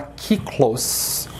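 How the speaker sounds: kiklos with the first syllable ki stressed; Greek stress. Shown as a demonstration. Teacher shows students the stressed syllable of kiklos. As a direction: say kiklos as KI-klos. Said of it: "identificar qual é a sílaba mais forte".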